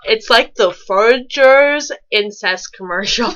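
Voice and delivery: laughing through the joke. Real, not acted. Co-hosts joking about the fan fiction, laughing. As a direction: giggle over the words.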